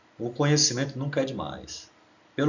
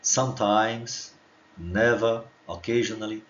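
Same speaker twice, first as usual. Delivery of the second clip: Sometimes stretched very slowly; drawn-out model word; slower than usual. Shown as a demonstration. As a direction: say Sometimes slowly for students to repeat. (Sometimes bem devagar e alongado)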